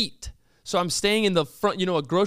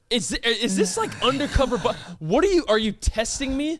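retold stunned disbelief; incredulous questioning. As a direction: fumble through baffled questions.

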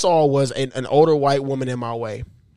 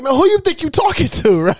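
retold comeback; 11 semitones higher than usual. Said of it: "Oh, you said it like that?".

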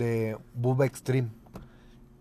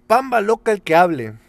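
loud call; 6 semitones higher, 7 dB louder than usual. Retold or imitated. Shouting the classroom game call.

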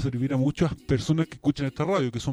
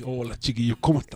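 metallic voice; 3 semitones lower than usual. Real, not acted. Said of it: "la voz metálica".

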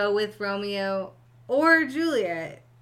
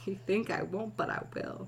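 mock threat; 6 dB quieter than usual. Mock menacing whisper.

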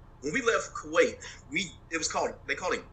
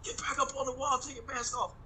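imitating an order; 13 semitones higher, 5 dB quieter than usual. To the host, mocking the order to unmask: higher mock command. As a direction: squeak out the officer's order. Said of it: "So I made it like".

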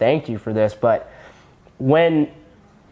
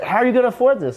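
much higher mock outraged dad voice; hammed-up disbelieving father scolding his son; imitating angry dad; 10 semitones higher, faster than usual. Dad scolding in retold story.

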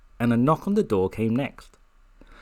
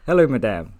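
light mock French accent, louder; a hint of a French bellboy; 6 dB louder than usual. Bellboy greets madame with a faint French accent. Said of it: "softly spoken French accent".

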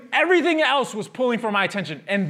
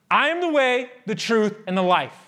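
proclaiming. Retold or imitated. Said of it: "I'm right here".

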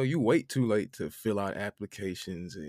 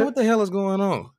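much higher, louder, laughing through it; laughing outburst; 10 semitones higher, 7 dB louder than usual. Retold or imitated. Retelling the roommate text to his friend, laughing outburst. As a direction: shout it while cracking up.

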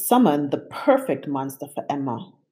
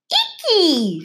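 laughing; 4 dB louder than usual. A narrator's reading. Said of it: "she laughed".

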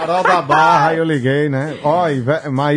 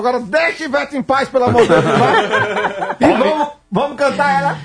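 mock sermon; 7 semitones higher than usual. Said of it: "foi um sermão".

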